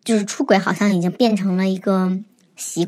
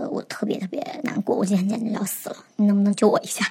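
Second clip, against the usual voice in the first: mild retold distress; 5 dB quieter than usual.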